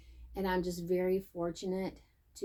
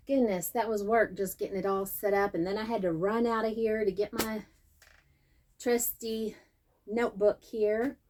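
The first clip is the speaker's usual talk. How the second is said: slightly winded talking; out of breath. Real, not acted. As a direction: speak a bit out of breath after running. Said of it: "I'm out of breath now".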